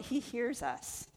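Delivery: "he hears you" slow, "he" leaned on; stress on he. Shown as a demonstration. Pastor assuring the church that God hears, "he" stressed slowly. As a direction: drag "he" out and land it firmly. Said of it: "but I tell you what".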